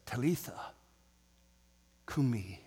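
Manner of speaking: put-on almost whispered "Talitha cumi" to the child; hushed Talitha cumi. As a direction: breathe "Talitha cumi" gently. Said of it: "hope that he whispered".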